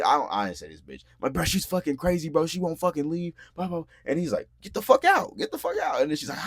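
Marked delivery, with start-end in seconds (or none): 1.3-3.8 high-pitched retold pleading of the case; worked-up mock exasperation; exasperated complaint. Retells complaining to cousin. 4.6-6.0 high, forceful imitated shout; retold yell, pitched way up; angry order. Retells cousin ordering her out.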